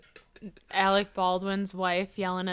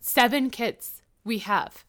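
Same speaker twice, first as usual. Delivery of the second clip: slow, lightly mocked Spanish accent; fake Spanish accent; slower than usual. Imitating celebrity wife on her children, slow Spanish accent. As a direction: drag it out in pretend Spanish English. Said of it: "got that fake Spanish accent".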